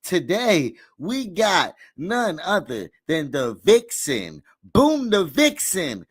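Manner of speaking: drawn-out hype host intro; announcer hype. Real, not acted. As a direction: announce her like an MC. Announcing guest like MC.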